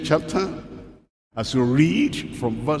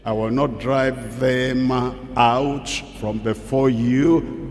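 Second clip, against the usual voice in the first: slow, solemn scripture reading; slow solemn reading of God's words; slower than usual. Acted. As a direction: read the Lord's words slowly and weightily. Reading the verse.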